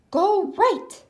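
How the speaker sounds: small high squeaky voice; a tiny helper answering high. A narrator's reading. Tiny voice pipes up directions to Goofy. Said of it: "answers a tiny voice".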